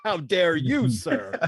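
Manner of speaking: high, laughing "how dare you"; mock indignant noble. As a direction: play an offended lord, hammed-up. Playful mock royal outrage.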